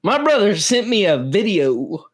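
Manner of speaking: lightly laid-on Kentucky twang; put-on Kentucky accent. Shown as a demonstration. Podcaster teasing about the accent, in a put-on Kentucky accent. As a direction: lean into a Kentucky accent on purpose. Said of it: "now you're doing it".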